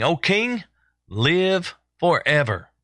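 a measured hail, opening high; crying out. Acted. Daniel hailing the king from the den, crying out. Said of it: "Daniel just cries out to the king".

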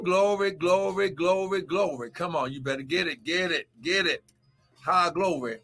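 rhythmic, rising preacher's cry over music; a pastor's charged morning prayer; fervent preaching prayer. Acted. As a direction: pray over them with full fire.

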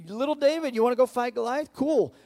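high, loud, hammed-up royal voice; King Saul. King Saul sizing up little David, high and loud. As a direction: talk down to the boy like a booming king. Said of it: "He's like".

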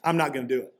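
brash assurance, starting strong and dropping to certainty; confident Peter. Retold or imitated. Disciple pipes up to contradict Jesus, confident. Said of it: "Confident, right?".

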